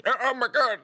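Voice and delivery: high panicked yelp; mock-panicked guard crying out. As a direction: squeal it like a startled guard. Guards panicking over burning ship.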